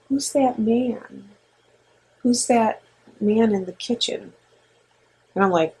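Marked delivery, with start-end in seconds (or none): 0.1-4.3 lightly voiced toddler. Voicing her two-year-old son.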